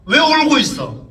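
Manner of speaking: retold fatherly scolding, pitch rising. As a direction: press the child with reproachful questions. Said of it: "그렇게 닥을 치고 있던".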